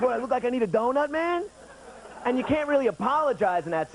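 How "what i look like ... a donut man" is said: indignant mock challenge, rising at man; half-hearted offended retort; insulted. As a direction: lightly take offense at the donut. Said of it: "he was sort of insulted".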